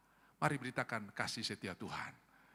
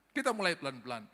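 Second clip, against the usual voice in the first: normal talking voice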